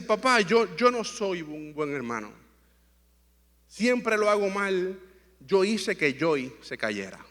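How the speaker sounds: slow, halting confession, lightly voiced; retold remorseful confession. Father retells son's tearful confession to him, lightly voiced remorse. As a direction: quote a sorry child owning up slowly. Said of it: "Él estaba arrepentido, estaba llorando".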